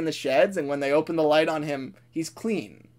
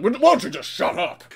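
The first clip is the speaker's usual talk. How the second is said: raised-pitch annoyed outburst; irritated Gordon; 5 semitones higher than usual. Acted. Gordon to the grateful engine, fed-up outburst. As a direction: snap at him, pitch raised. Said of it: "Gordon's just like".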